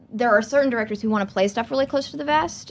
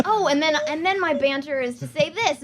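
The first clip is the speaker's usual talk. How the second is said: mock self-satisfied banter; 6 semitones higher than usual. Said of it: "I was like".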